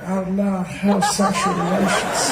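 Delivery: slow, seductive presidential caricature; mock-seductive politician, very slow; Bill Clinton. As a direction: draw it out as if seducing the listener. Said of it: "like he's trying to seduce people".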